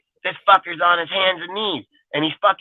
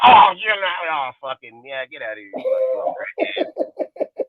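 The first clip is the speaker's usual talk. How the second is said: mocking a tweaker; 3 semitones higher than usual. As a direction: whine it like a jittery crackhead. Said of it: "The second that they soul up".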